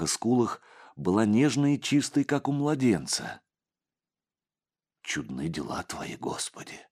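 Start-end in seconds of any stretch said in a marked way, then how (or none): 5.0-6.8 hushed awed whisper. A narrator's reading. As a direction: breathe it out in wonder. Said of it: "прошептал отец Егорий". (шёпотом)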